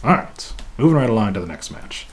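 ordinary talk, nothing marked

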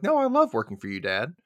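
a lightly voiced eager daughter; mock sweet daughter. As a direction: gush lightly to your dad. Voicing Angela to her dad.

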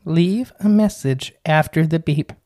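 slow text reader reading "Mokele Mbembe"; automated voice. Pretend. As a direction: stiff answering machine voice, slow. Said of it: "It sounds like the automated voice".

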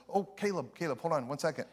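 a lightly voiced soft aunt; gentle aunt calling to her nephew. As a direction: keep it hushed and kind. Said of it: "She has a very soft kind of voice".

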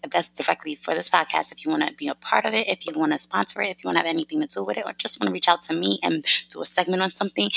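rapid-fire rundown of options; fast New Yorker patter; talking fast. Real, not acted. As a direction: rattle through the list quickly. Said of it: "if I'm talking too fast".

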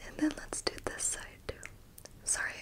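close, very soft unvoiced whisper; leaning in to whisper. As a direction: lean in and breathe the words. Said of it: "if I whisper really close to you".

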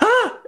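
short, high, loud imitated scream; startled scream. Retelling a dance partner's surprise on stage, imitated startled scream. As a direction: mimic a shocked scream at full pitch. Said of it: "she screamed out loud".

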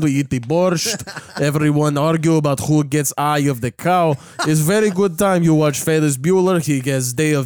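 a hint of a Russian immigrant dad; Russian accent. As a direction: joke about family in a light Russian accent. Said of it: "It's a Russian family tradition".

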